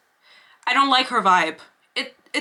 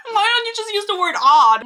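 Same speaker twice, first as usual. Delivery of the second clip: laughing; 11 semitones higher, 4 dB louder than usual. Real, not acted. Laughing at herself.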